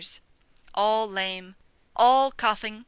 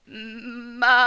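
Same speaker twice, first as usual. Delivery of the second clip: bleated sheep name; 5 dB louder than usual. A narrator's reading. Sheep says her name.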